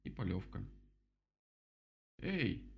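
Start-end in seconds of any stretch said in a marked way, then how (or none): 2.2-2.7 high-pitched little squeak; squeaky. A narrator's reading. Mole protests the flood, squeaky. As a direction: squeak it like a small animal. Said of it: "запищал крот".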